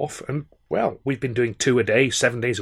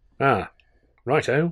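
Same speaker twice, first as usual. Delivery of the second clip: uneasy, awkward tone. Narrator reads Arthur replying to Tilly, awkward. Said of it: "I said, awkwardly".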